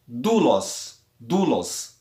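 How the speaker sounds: doulos with a long first syllable, said DU; stress on DOU. Shown as a demonstration. Teacher giving a circumflex example, doulos stressed on DOU. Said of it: "Veja que o acento caiu na na penúltima sílaba, du".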